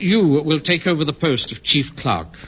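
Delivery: half-laughing, very slow repeat; slow deliberate repeat. Shown as a demonstration. Manager repeats news to stunned Pike, slow and deliberate. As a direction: spell it out slowly, with a chuckle. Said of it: "I said".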